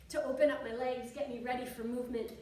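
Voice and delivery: winded, breathing between words. Real, not acted. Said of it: "I'm getting a little, um, out of breath here".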